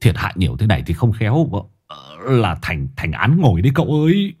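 low, hurried urging; a deep voice pressing to run; urgent Hải Nghẹo. A narrator's reading. Hải Nghẹo urges his master to flee the pond, low and hurried. Urging flight before owner comes.

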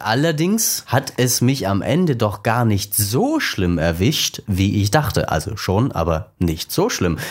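reading a prepared intro aloud; vorgelesener Einleitungstext. Real, not acted. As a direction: read your written text with measured phrasing. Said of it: "meinen kleinen Einleitungstext vorlesen". (Einleitungstext gegliedert vorlesen)

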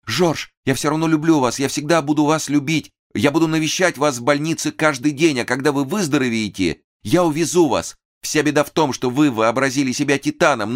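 high, tender pleading; нежное признание; tender devotion. A narrator's reading. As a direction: promise your love to him. Durova consoling beloved.

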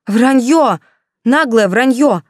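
loud, high outraged cry; choking with outrage. Acted. Yulka outraged at Olya's lie, loud indignant cry. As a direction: gasp it out in fury. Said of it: "задохнулась от возмущения Юлька".

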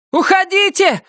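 very high shouted order; shouting. Acted. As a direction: yell at them to leave. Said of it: "закричала Доркас". (крик)

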